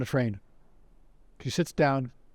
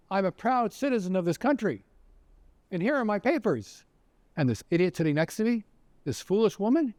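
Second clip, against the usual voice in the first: proud protest, pitched up; acted indignation; 6 semitones higher than usual. Man shows the Nazi his papers, feigning indignation at his wife. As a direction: declare it with mock-indignant, higher pitch.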